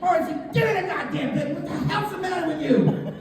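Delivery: hammed-up exasperated telling-off; exasperated scolding. Acted scolding at the zoo.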